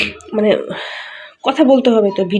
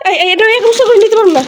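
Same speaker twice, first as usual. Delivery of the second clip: straining under a load; 11 semitones higher, 4 dB louder, faster than usual. Real, not acted. Lifting a heavy rice sack.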